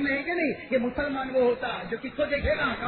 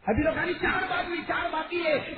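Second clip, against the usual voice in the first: higher and louder second take; raised repeat; 6 semitones higher, 3 dB louder than usual. Acted. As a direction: push the count out hard, insisting. Old man repeats his count, raised.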